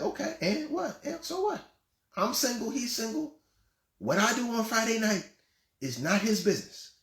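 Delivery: defiant mock woman. Voicing a defiant woman listener.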